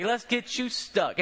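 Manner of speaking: a hint of the old nurse's Charlestonian drawl. Nurse readies the needle: light, slow Charlestonian drawl. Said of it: "has this thick Charlestonian drawl".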